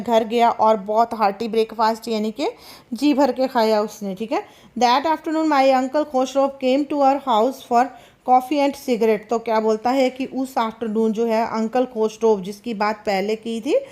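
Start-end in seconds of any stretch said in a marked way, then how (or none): 4.8-9.3 slow, careful reading aloud of the English text; slow story reading. A narrator's reading. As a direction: read each phrase slowly for the class. (धीमी कहानी पढ़ाई)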